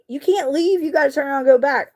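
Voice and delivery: high, fast urgent warning; a lightly voiced dad ordering her back; insistent dad. Dad on the phone telling his daughter to return, urgent. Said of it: "he was like".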